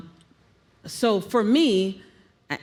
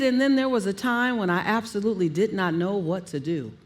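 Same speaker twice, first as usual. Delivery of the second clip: verbal highlight. Shown as a demonstration. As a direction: demonstrate contrast by coming down in pitch. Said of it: "what I call verbal highlights".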